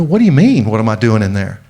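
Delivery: a touch of retold anger, rising sharp then dropping; mild mock indignation; defensive anger. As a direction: bristle back at a friend, half-hearted. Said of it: "feel myself get red and hot and angry".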